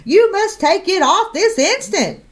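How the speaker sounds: high, bossy demand; crying out. Acted. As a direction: order her to take it off. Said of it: "Missus McSnoot cried".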